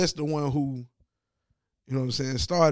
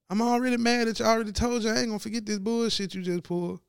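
higher, dismissive mock player voice; imitating the player; 5 semitones higher than usual. Player dismissing the head coach, higher mock voice. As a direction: brush off the little coach.

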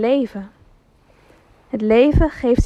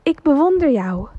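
enthusiastic echo; 3 semitones higher than usual. Acted. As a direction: answer back like a distant echo. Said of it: "met hetzelfde enthousiasme". (de echo antwoordt wat zachter)

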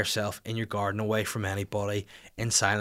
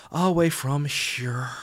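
North Down accent; 3 semitones higher, much slower than usual. Shown as a demonstration. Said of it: "natural North Down voice".

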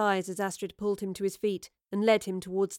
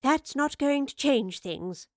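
slow, higher, louder world-weary line; sighing; 6 semitones higher, 6 dB louder, slower than usual. A narrator's reading. Professor faces Wayland's lifted blaster, sighing. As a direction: draw it out with a sigh. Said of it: "the professor sighed".

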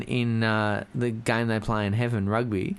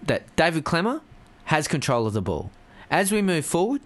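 flat, mechanical commentator voice; robot voice; 3 semitones higher than usual. Retold or imitated. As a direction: read it out like a machine. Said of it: "why the fuck are you talking like a robot".

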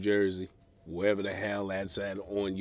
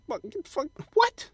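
high startled squeal rising to a yelp; shocked squeal. Retold or imitated. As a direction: recoil in mock horror. Reacting to alien-looking photo.

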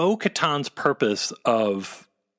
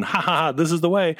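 mocking fan catchphrase; 6 semitones higher, much faster than usual. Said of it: "people'd say it".

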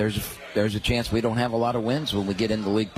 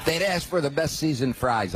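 words through a chuckle; laughing; 6 semitones higher than usual. Real, not acted. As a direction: say it while still laughing.

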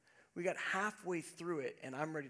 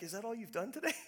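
innocent version; 4 semitones higher, faster than usual. Shown as a demonstration. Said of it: "I just meant it as in".

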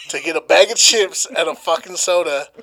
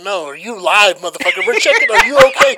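mock cop yell; 3 semitones higher, 7 dB louder than usual. Cops checking he is alive.

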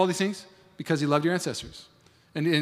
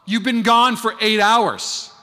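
puzzled wife; 7 semitones higher, 7 dB louder, much slower than usual. Retold or imitated. Wife confused.

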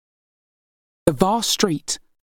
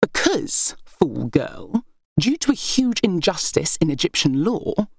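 scornful heir; 2 semitones higher than usual. Acted. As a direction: lord it over your sisters with scorn. Berenice's bitter complaint.

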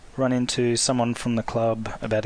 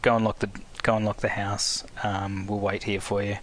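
deadpan. Retold or imitated. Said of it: "in a deadpan voice says".

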